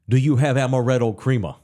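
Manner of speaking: lightly voiced New York demand for amaretto crema; New York accent. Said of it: "In that New York accent".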